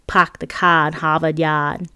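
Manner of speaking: slow, lightly voiced Boston accent, no r in car or Harvard; a hint of wicked Boston drawl. Narrator imitating a Brazilian friend's mild Boston accent. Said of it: "a wicked Bostonian one".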